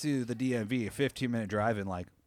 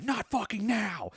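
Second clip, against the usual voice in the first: frantic brush-off; 10 semitones higher, slower than usual. Retold or imitated. Retelling rushing past.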